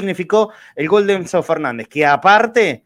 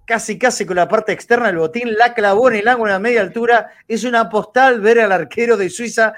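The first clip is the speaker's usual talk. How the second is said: excited goal call, higher and louder; breakneck goal commentary; 5 semitones higher, 3 dB louder than usual. Real, not acted. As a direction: hail the goal like a live broadcast. Gol de Brasil en vivo. (relato de gol emocionado)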